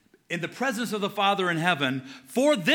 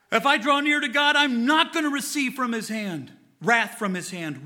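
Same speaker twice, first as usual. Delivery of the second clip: forceful preaching; 4 semitones higher, 4 dB louder than usual. Real, not acted. Preacher pressing the point.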